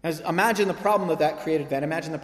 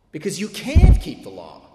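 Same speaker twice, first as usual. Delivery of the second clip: forceful proclamation; 12 dB louder than usual. Retold or imitated. Reformers' voice, forceful.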